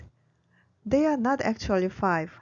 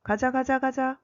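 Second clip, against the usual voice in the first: raised-pitch call to get moving; mock shout; 4 semitones higher, much faster than usual. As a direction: imitate a manager's shout at normal volume. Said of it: "the manager shouts".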